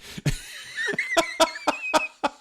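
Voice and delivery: short high self-conscious laugh; embarrassed laugh. Real, not acted. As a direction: laugh at your own fumbling. Laughs at his own stumbling.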